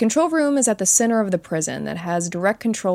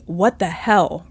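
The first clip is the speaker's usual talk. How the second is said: loud outburst; slower than usual. Retold or imitated. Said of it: "rather loudly".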